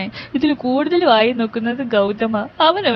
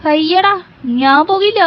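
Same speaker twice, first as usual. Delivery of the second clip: scared refusal; 6 semitones higher than usual. Acted. Refusing to open door, scared.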